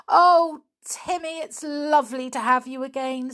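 high, delighted greeting; girl reunited with her dog, happy; happily. Acted. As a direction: gush with joy at the dog's return. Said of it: "said George happily".

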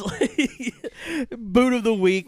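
squeaky, loud, silly announcement; high goofy voice. Shown as a demonstration. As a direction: belt it out high like a goofy jingle. Segment name, repeated goofy.

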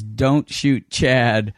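slow, measured order; deliberate instruction. Retold or imitated. Band's manager to the show's director, slow deliberate order. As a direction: space out each word as a directive.

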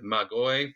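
magoi said as mah-GOY; Greek pronunciation. Shown as a demonstration. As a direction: say magoi with a hard G, ending in oy. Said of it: "when we talk about the Greek word".

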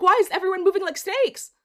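loud, high retold complaint with a laugh; imitated indignant outburst. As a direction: act out his exasperated yell.

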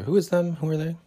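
high squeaky mimicry of the police; mock them in a high squeak.

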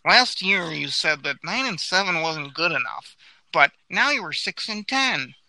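needling reporter voice, rising to a high indignant squeak; Dave Burkett impression. Reporter grilling the GM, building to a high mock outrage. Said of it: "this is my Dave Burkett impression".

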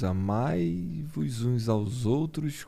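slow, soft solemn reading; solemn scripture quote. Retold or imitated. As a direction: quote scripture slowly and quietly. Quoting Jesus solemnly.

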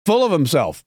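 high-pitched mock-angry outburst; Chris Christie, angry. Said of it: "He's angry. He's like".

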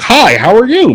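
high-pitched mock-polite greeting; mocking proper talk. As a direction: mimic an overly proper hello, high and singsong. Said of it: "they're all just like".

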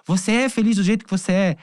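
high, emphatic mother's plea; retold yelling. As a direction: imitate a mother pressing hard for an answer. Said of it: "gritando pra mim".

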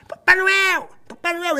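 high, excited call to Papai Noel; calling out to Santa. Retold or imitated. Thrilled fan calls Santa down the corridor, high calling out.

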